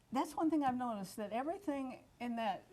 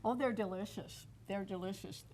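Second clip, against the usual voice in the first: talking with mouth full; words round a bite of food. Real, not acted. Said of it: "my mouth's full".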